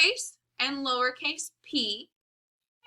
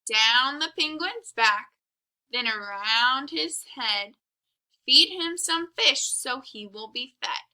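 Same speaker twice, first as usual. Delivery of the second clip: sing-song rhyme; 4 dB louder than usual. Shown as a demonstration. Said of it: "listen how we write our letter P".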